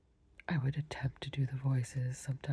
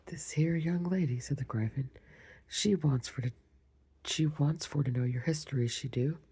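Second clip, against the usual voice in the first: Gryphon voice. Shown as a demonstration. Reader retakes the Gryphon's line, lightly voiced. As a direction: restart the creature's line with a touch of swagger. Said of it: "Let me start that over".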